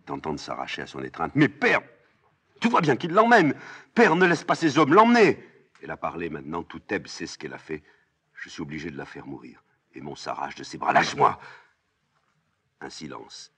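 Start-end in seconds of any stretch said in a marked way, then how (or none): 1.3-5.4 high, loud, desperate plea; crying out. Acted. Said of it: "Aimon crie". 10.9-11.4 raised, forceful demand; struggling free. Acted. Aimon s'arrache de ses bras.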